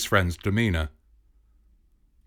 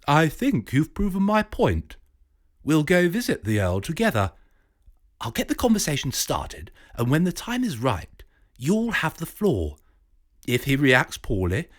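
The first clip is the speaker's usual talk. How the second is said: a touch higher, scheming academic; lightly voiced professor; 5 semitones higher than usual. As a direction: lay out the plan like a sly don.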